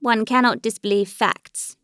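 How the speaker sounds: "facts" given emphasis at the end; stress on FACTS. A narrator's reading. Alexei answers Dolly's disbelief, with emphasis on "facts". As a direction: lean on the word "facts". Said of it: "with an emphasis on the word facts".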